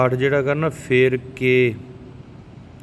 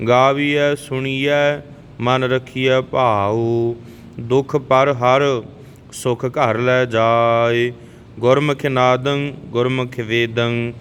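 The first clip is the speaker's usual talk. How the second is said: slow, even devotional recitation of gurbani; scripture recitation; much slower than usual. Shown as a demonstration. Teacher reciting Japji Sahib for the learners, calm and even. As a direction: recite each line steadily, like a prayer.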